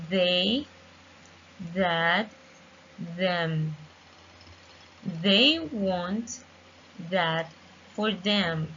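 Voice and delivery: "they", "that", "them" with a buzzing voiced th; tongue between the teeth on "they" and "them"; clear th examples. Shown as a demonstration.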